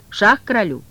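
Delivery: loud, firm check. Acted. Woland repeating check to the cat, firm and loud. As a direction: call check sharply. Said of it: "спросил Воланд".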